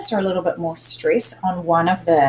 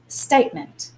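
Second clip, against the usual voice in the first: Statement with the first syllable stronger; Statement, emphasis up front on State; stress on STATE; 3 semitones lower than usual. Shown as a demonstration. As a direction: lean on State, let ment drop. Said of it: "a little bit more emphasis on the state".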